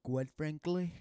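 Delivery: lightly voiced politician catchphrase; Donald Trump. Friend starts the Trump impression, lightly put on. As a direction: try out the president's catchphrase lightly. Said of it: "we'll do Donald Trump first".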